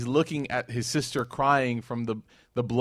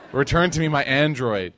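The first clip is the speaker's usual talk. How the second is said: louder hammed-up plea; mock pleading; 2 semitones higher, 5 dB louder than usual. Preacher mimicking a woman praying for her lost phone, mock pleading. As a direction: beg for the phone like a desperate prayer. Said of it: "making dua".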